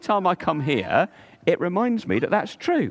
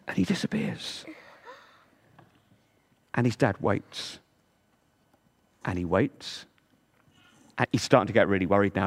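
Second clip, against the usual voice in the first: story narration. Acted. Telling children about the pearl diver, storybook narration. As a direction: read it like a bedtime tale for little ones.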